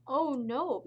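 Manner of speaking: high, loud "oh no"; alarmed cry. Acted. Mouse crying out as her home is crushed, high and loud. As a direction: cry out in shock. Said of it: "Mouse cried".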